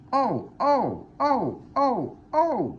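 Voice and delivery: high, loud squealing trucks; screaming trucks. A narrator's reading. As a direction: shriek like startled toy trucks. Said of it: "screamed the trucks".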